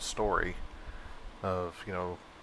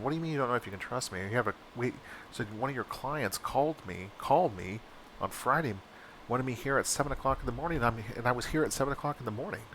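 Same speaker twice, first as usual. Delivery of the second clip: exasperated retort; 4 semitones higher than usual. Retold or imitated. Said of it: "I got kinda sarcastic".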